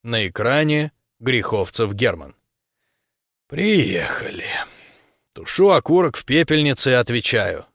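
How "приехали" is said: breathy whispered aside. Acted. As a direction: whisper it to yourself. Видит звонок Германа, про себя. (шёпотом про себя)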